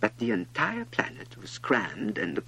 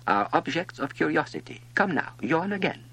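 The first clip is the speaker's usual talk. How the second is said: louder royal order; commanding king; 4 semitones higher, 4 dB louder than usual. Acted. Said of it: "the king said".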